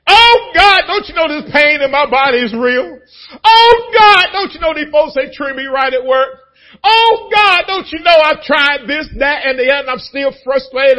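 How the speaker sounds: loud high crying plea to God; desperate complaint. Retold or imitated. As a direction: wail your troubles at God.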